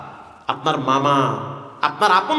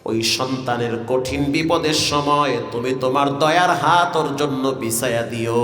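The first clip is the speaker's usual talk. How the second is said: mother's tearful prayer, retold. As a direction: imitate a mother's weeping blessing in waz melody. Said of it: "চোখের পানি ছেড়ে দিয়ে বলেছে". (সুর টেনে মায়ের দোয়ার অনুকরণ)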